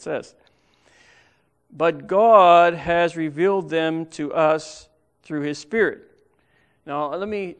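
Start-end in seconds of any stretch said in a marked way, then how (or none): 1.7-6.0 GOD hit loud and long; proclaimed scripture, louder; emphatic reading. Acted. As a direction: lean hard on God as you read it. Reading the key verse with emphasis.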